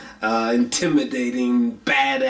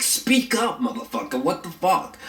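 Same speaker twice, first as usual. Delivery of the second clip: high-pitched, exasperated demand on the first words; mock exasperated yell without real volume; fed-up plea, jumping up in pitch; irritated outburst; 6 semitones higher than usual. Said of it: "it just fucking irritates me".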